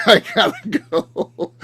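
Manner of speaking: very high, drawn-out singsong goodbye; fake-friendly excuse. Co-host mocking the awkward exit, hammed-up fake-friendly. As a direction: stretch it out high, laughing. Mimicking her awkward escape.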